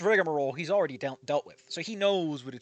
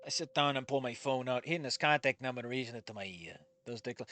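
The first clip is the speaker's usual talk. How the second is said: lower, softer first-person narration; story narration; 4 semitones lower, 7 dB quieter than usual. A narrator's reading. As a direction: read it quietly, like a book's narrator.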